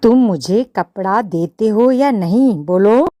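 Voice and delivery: loud demanding yell; mouse yelling. Acted. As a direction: shout the demand. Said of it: "चूहा चिल्लाया".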